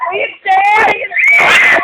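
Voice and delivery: loud urgent call, rising high; shouting. Real, not acted. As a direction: yell across the room about the chair. Calling out about the chair. (pasigaw na tawag)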